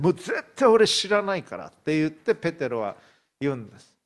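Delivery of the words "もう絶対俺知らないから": louder, higher, swearing he never knew him; cursing denial. Acted. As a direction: spit the oath out hotly. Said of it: "もう呪いをかけて誓い始め".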